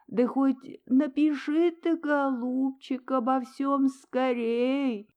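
high, slow, tearful pleading; tearful mother's plea; sobbing plea. A narrator's reading. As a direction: beg through tears as the train leaves. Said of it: "рыдая".

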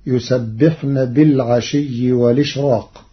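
والإشراق said walishraq, hamza dropped; والإشراق with the hamza vowel moved onto the lām; Warsh hamza transfer. Shown as a demonstration. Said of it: "بنقل حركة الهمز إلى الساكن قبله". (نقل حركة الهمز في والإشراق)

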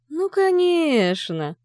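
a high, very slow, sing-song exclamation; light up at the idea; lively. A narrator's reading. Father perks up at the serum idea, eager. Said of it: "оживлённо сверкнул".

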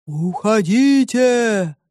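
slow, drawn-out monster boom; muffled monster voice. A narrator's reading. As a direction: draw it out like a hidden beast. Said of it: "пронёсся над лесом глухой голос". (глухой, протяжный голос чудовища)

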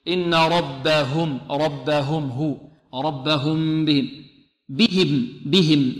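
slow recitation making the h in "بهم" distinct; drawn-out "ربهم", fully voiced h in "بهم"; clearly articulated ha. Shown as a demonstration. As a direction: sound out every h in "ربهم بهم". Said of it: "والهاء هذه لابد من إيضاحها".

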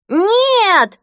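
put-on high furious child's scream; furious yell. Boy refusing to leave the bath, furious high scream. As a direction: scream it as a raging little boy. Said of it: "в ярости завопил Зигги".

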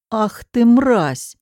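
slow, loud, spat-out curse; furious at the thug; angry outburst. Acted. Maxim kicking the thug who grabbed her, angry curse. Rescuer attacks the abductor.

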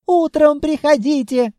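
shopkeeper shouting high through the door; high loud shout. A narrator's reading. Frightened shopkeeper yelling at night buyers to go away. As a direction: send them away, yelling.

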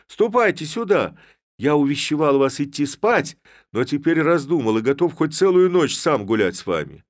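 loud, high call. A narrator's reading. Levko summons the lads, loud. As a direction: hail them over.

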